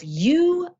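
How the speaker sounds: a hint of a cruel inner critic; harsh self-talk. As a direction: lightly play her berating herself. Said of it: "this is how she talked to herself".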